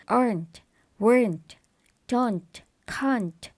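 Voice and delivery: aren't, weren't, don't, can't said slowly, each as one syllable; one-syllable contractions. Shown as a demonstration. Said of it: "The first one is one syllable".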